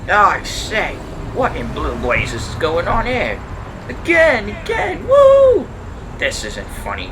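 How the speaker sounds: high, loud, rising to a whoop; a posh man tossed about in alarm; flustered gentleman. Acted.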